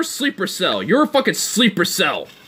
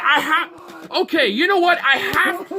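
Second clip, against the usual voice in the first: laughing; 9 semitones higher than usual. Real, not acted. Laughing while trying to speak.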